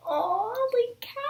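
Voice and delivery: fangirl squeal. Retold or imitated. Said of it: "I was like".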